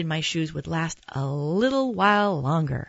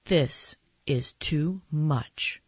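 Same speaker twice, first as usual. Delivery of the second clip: slow, word-by-word exasperation; exasperated protest; much slower than usual. Acted. Mom faced with a flying dinosaur, slow exasperated protest. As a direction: space the words out, worn thin, without raising the voice. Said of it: "my mom protested".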